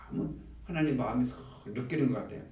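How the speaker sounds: ordinary talk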